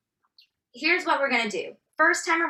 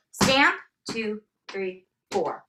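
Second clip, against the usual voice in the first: "Stamp" louder, "two, three, four" falling away lighter; accent on first count; 2 semitones lower, slower than usual. Shown as a demonstration. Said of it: "Make the first sound loud".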